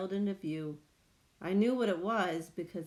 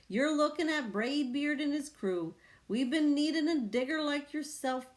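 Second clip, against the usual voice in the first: pirate captain; 7 semitones higher than usual. A narrator's reading.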